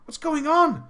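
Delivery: high-pitched incredulous demand; acted-out baffled outburst; mock bewilderment. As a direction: demand answers, half amused. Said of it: "I whispered him, saying".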